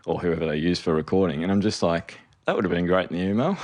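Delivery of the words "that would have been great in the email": exasperated outburst. Retold or imitated. Exasperated retelling of missing studio.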